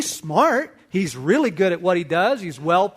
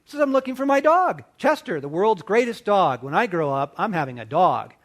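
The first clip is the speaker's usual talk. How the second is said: a lightly voiced eager boy, higher; excited little boy; 5 semitones higher than usual. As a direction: play the kid bursting with excitement. Eight-year-old self talking to adult.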